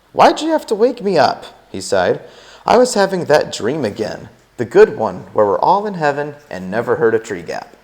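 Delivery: a hint of sleepy, put-out Tuck; just woken and a little put out; lightly voiced grumpy husband. Tuck complaining to May about being woken, lightly voiced.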